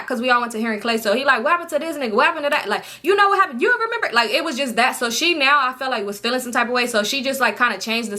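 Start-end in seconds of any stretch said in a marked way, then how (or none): 1.4-4.1 eager questioning. Retold or imitated. Imitating his eager questions.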